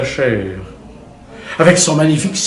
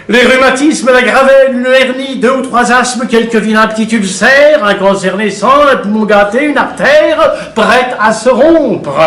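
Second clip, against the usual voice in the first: high-pitched, insistent list of ailments; mounting enumeration; 6 semitones higher than usual. A narrator's reading. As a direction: keep the pitch up, stretch out the final item. Narrator piles up hidden ailments. (énumération perchée et insistante)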